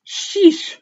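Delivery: high, loud put-on creature voice; creature exclamation. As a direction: blurt it out in the creature's voice. Creature reacts aloud.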